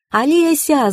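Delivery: high calling yell; yelling a name. A narrator's reading. Eva yelling to her friend from the car, high call. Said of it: "завопила я".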